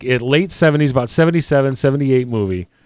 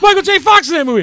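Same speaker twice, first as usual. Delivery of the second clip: excited recognition; 13 semitones higher, faster than usual. Retold or imitated. Host retelling Casey recognizing the actor, excited squeal. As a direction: blurt it out, thrilled. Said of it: "it's like".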